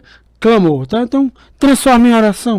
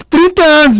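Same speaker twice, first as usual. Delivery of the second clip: laughing disbelief; 5 semitones higher than usual. Real, not acted. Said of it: "laughing disbelief".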